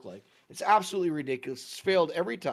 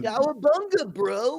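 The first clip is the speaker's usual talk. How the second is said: high, loud laid-back surfer bro; surfer dude voice; 9 semitones higher, 4 dB louder, slower than usual. Retold or imitated. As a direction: toss it off like a beach surfer. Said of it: "talks like a surfer".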